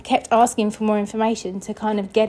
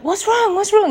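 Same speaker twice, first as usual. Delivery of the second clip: retold shouting; 11 semitones higher than usual. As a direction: imitate someone calling over in alarm. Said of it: "she's shouting over to me".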